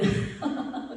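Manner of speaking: short voiceless chuckle; laughing. Real, not acted. Preacher amused by own blessing-curse, short laugh. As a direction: chuckle at your own joke.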